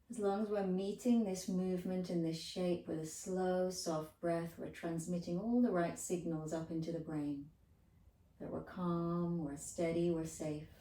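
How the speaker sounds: steady, soothing meditation voice; calm yoga teacher's reassurance; guided relaxation. Acted. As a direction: settle them with evenly spaced phrases. Soothes listeners during the held twist.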